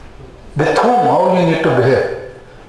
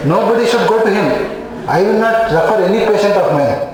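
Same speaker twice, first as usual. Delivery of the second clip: pulsatilla patient; 2 semitones higher than usual. Acted. Pulsatilla patient complaining about an unmoved doctor, mock aggrieved. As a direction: lightly act out a hurt patient's complaint. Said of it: "pulsatilla will feel".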